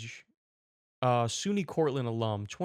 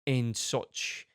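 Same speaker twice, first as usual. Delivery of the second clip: mock sympathy; slower than usual. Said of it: "They go".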